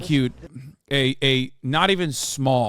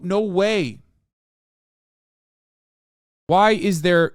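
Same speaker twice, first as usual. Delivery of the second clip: loud, higher, slowed with disbelief; exasperated rant; 3 semitones higher, 4 dB louder than usual. Real, not acted. Scolding posters online, louder and higher. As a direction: lay into them with disbelief.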